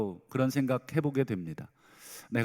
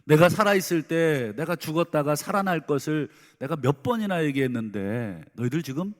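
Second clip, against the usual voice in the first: louder, scolding questions thrown at the disciples; imagined rebuke; 2 semitones higher, 3 dB louder than usual. Retold or imitated. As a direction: play a harsh master berating hiding students. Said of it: "이렇게 책망하지". (제자들을 다그치는 가상의 책망, 크게)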